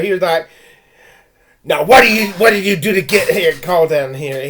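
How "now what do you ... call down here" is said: a loud, stern voice with a bit of bark; imitating angry principal. Principal scolding the kids in his office, angry. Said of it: "He was angry".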